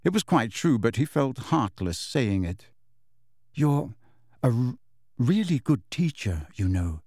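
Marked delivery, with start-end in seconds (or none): 3.5-7.0 watery smile. A narrator's reading. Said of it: "with a watery smile".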